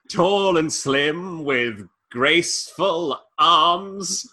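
very slow, drawn-out Toast of London voice; Toast of London accent. Acted. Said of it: "doing the fucking Toast of London accent".

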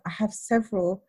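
retold calm reasoning in an even voice; measured, composed self-defence. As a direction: explain it evenly, keeping composed. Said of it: "very calmly".

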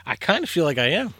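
high and loud through laughter; laughing. Real, not acted. Guest laughing at the host's teasing, laughing. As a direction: laugh it out, amused at yourself.

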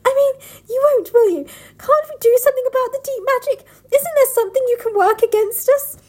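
high, loud shrill pleading. Acted. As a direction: shriek the plea up high and loud. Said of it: "Working against your fucking voice".

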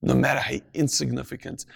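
ordinary talk, nothing marked

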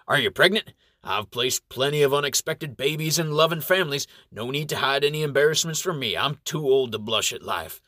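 cheerful. Acted. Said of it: "asks cheerfully".

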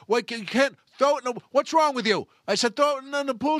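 high, loud disbelief; acted angry outburst; exasperated berating. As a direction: snap at the maid in frustration. Boss berates the sobbing maid.

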